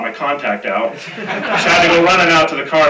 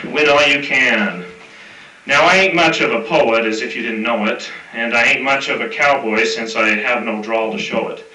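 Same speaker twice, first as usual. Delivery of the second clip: reciting a rhyming cowboy poem; cowboy poetry; 2 semitones lower than usual. Acted. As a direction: read it like a campfire cowboy verse. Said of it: "it's somewhat of a cowboy poem".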